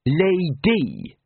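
high, carefully placed word; careful, deliberate. A narrator's reading. Housekeeper correcting the wizards, careful and deliberate. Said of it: "uttered the word carefully and with deliberation".

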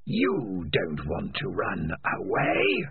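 lightly voiced coaxing spirit; coaxing Spider. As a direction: tempt him slowly. Spider's voice, slow.

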